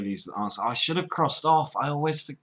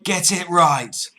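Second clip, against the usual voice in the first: loud, higher and drawn out; slow angry order; 5 semitones higher, 6 dB louder, slower than usual. Pretend. Cockney caller scolding the agent, slow and angry. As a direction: press the demand slowly.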